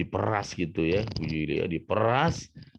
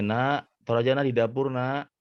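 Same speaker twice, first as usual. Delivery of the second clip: higher-pitched mother calling out; mother to child; 6 semitones higher than usual. Acted. Mother tells child to put it in the kitchen, high motherly voice. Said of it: "Kata ibunya".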